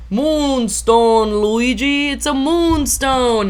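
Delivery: retold triumphant call, high and loud; excited announcement. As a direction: draw out the final word as you proclaim it. Retold announcement to family at party.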